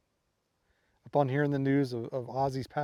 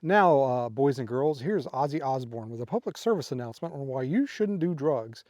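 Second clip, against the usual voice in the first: announcer voice. Retold or imitated. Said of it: "like an announcer saying".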